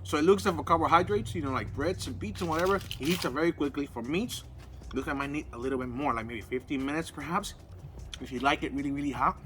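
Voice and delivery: talking with mouth full; words round a bite of meat; chewing steak. Real, not acted. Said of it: "sorry 'cause I'm talking with my, my mouth full".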